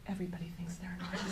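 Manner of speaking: a quick private scoff; dismissive inner thought. Retold or imitated.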